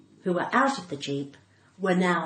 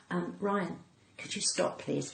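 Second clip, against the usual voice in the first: hushed request; 2 semitones lower, 10 dB quieter than usual. Retold or imitated. Quietly asking ranger to stop.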